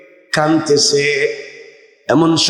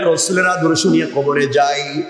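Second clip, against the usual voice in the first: ordinary talk, nothing marked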